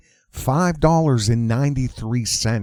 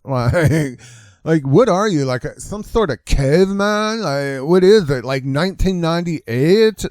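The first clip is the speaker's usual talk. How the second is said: mock disdain. Mocking meat eater as activist.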